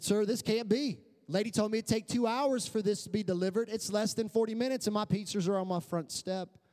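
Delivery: acted-out high, astonished protest; incredulous protest. Customer to pizza delivery man at the door, mock incredulous. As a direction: protest in rising disbelief, retelling it.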